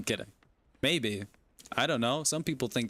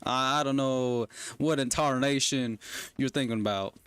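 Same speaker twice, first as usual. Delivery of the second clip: Texan accent. Shown as a demonstration. Streamer defending the accent, put-on Texan accent. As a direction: answer like a born-again Texan. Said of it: "This is what a Texan sound like".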